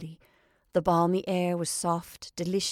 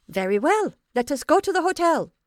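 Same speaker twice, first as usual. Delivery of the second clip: high, louder, dripping with scorn; contemptuous; 9 semitones higher, 7 dB louder than usual. A narrator's reading. Italian woman answering the narrator, high and contemptuous. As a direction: scornfully agree to the hotel. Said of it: "in a contemptuous voice".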